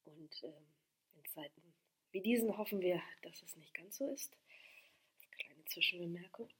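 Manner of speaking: hushed, half-whispered side remark; whispered aside. Real, not acted. Reader stepping out of the text for a small remark, whispered. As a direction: drop out of the reading into a very soft murmur.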